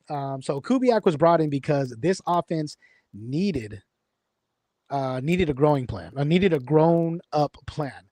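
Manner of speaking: slow, deliberate reading from notes. Real, not acted. Host reading his prepared notes aloud to viewers, slow and careful. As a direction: read it off the page carefully. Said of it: "trying to read my notes".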